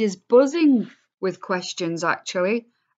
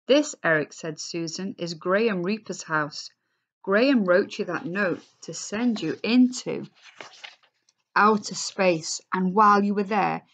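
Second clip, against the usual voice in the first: expressive read-aloud to a class; story reading; 2 semitones higher than usual. A narrator's reading. Teacher reading the class novel aloud, expressive.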